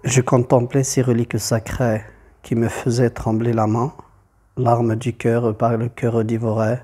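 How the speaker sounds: measured verse recitation, pausing between lines; poem reading. Acted. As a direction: read the poem line by line, evenly. Reads the poem aloud.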